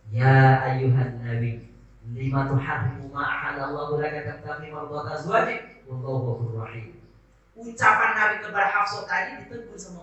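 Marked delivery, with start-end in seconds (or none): 0.1-7.0 Quran recitation. Acted. Preacher reciting the Quran verse to the congregation, chanted.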